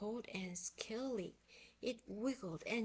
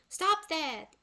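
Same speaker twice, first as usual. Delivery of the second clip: loud, high angry shout; furious loud command; 8 semitones higher, 13 dB louder than usual. A narrator's reading. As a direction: yell at the monkey to stop. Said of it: "Annie shouted".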